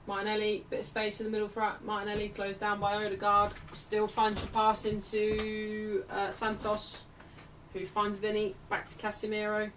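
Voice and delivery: level-pitched running match commentary; live play-by-play. Real, not acted. Commentator tracking Martinelli's pass for viewers, live play-by-play. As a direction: follow the passes in an even, steady line.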